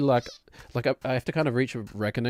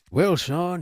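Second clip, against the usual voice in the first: lightly voiced cowboy dad, pitched up; a hint of Arthur Morgan as dad; 6 semitones higher, 3 dB louder than usual. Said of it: "We'll do Arthur Morgan for Daddy Laser Beam".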